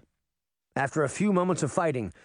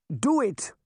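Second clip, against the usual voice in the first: begging; 8 semitones higher than usual. A narrator's reading. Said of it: "Granny begged".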